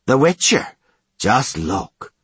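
shouted mocking hail; loud jeer. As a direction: call him out loudly. Guard commandant mocking jeer.

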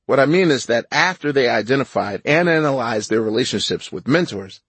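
measured, composed book reading; audiobook narration. Real, not acted. Author reading his food book for the audiobook, measured narration. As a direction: read your memoir evenly, sentence by sentence.

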